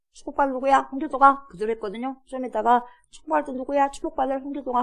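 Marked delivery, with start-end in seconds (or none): 0.1-1.5 higher-pitched imitated call; dutiful son calling out. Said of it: "엄마가 그렇게 시키니까 했어". 3.1-4.8 higher, lightly distant call; hint at the blessing bouncing back; imitated echo. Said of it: "자기 귀에 또 들려".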